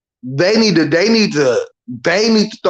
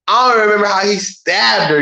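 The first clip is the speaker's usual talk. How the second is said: usual speaking voice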